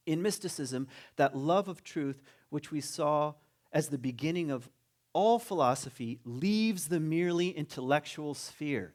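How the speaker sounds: slow, measured reading of a quotation; emphatic, unhurried recitation; reading aloud. Acted. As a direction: read it out deliberately, weighting key words. Reads a quoted passage aloud.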